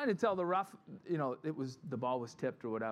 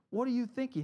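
mock outraged rebuke; 9 semitones higher, 5 dB louder, faster than usual. Imagined rebuke of the people.

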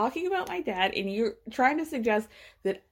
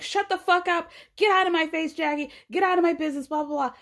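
higher mock snap at Jackie; imitating an angry snap; 6 semitones higher, faster than usual. Teresa snapping at Jackie, retold with a higher mock snap. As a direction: retell Teresa's outburst, raised and cutting. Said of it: "Teresa snaps at Jackie immediately".

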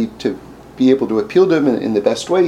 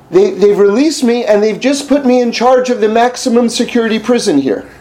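quoted official; 9 semitones higher, 4 dB louder than usual. Retold or imitated.

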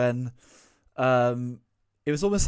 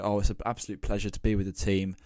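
trotted-out PR line; 3 semitones lower, 3 dB quieter, faster than usual. Retold or imitated. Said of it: "trot out some, like, generic language".

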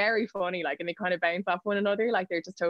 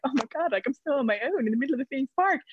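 retold upset; 8 semitones higher, faster than usual. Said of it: "I just started crying 'cause I was like".

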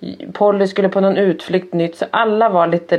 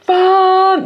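high, loud mock child's yell; drawn-out high-pitched retold scream; imitated angry outburst; 13 semitones higher, 5 dB louder than usual. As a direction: let the curse rip like a furious kid. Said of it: "han är så jädrans arg".

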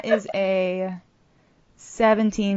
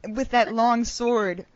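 dramatic seer; 3 semitones higher, 4 dB louder, much slower than usual. Acted. Prophetess addresses Jazz.

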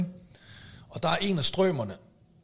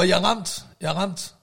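mock call for help, slightly raised; retold shout; 4 semitones higher, 4 dB louder than usual. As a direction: call it out twice to the officer, half-projected. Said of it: "Jeg råber".

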